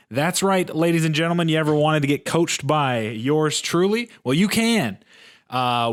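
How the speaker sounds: upbeat sponsor pitch; ad read. Acted. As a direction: sell it like a radio ad. Reads his sponsor ad.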